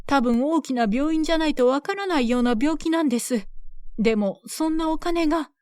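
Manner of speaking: lightly voiced anxious mother; pleading mother. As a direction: beg the villagers to spare her.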